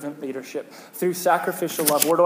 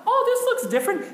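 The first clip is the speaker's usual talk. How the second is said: imitating guests; faster than usual. Guests' remark quoted.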